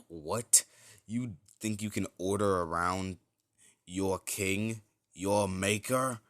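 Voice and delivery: arrogant rebuke. Acted. The white-haired king rebukes Deku, slow and scornful. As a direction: talk down to a servant.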